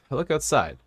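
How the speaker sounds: cough, then call it out loud. Acted. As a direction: clear the throat and shout the line.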